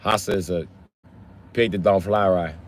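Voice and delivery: lightly voiced movie gangster with Latino accent; Scarface. Gangster telling Frank what he is, light Latino-accented impression. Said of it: "sound like Scarface".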